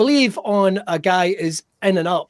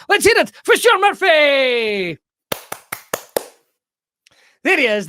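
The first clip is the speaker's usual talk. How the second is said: announcer shout; 6 semitones higher than usual. Acted. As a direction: call the guest on like a ring announcer. Host announcing guest.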